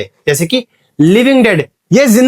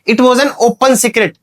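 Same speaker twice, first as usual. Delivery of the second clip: very slow, a bit higher, each word spaced; slow example read; 4 semitones higher, much slower than usual. Shown as a demonstration. Teacher reads the oxymoron example slowly to students.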